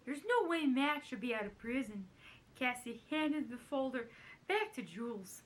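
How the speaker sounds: lightly put-on celebrity narration; a hint of impression in the story reading; Carol Channing. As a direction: keep up a shaky comic impression while reading. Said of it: "really great in her voice".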